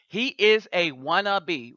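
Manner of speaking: "is" leaned on slowly in "He is a wannabe"; slow, insisting on "is"; stress on is. Real, not acted. Host insisting to viewers, "is" stressed slowly. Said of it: "Remember, I gave you the wannabe".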